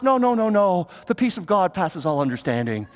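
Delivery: lightly mock-pious denial, sinking low; saintly mode. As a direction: wave off sympathy with put-on holiness. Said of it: "we step into the saintly mode".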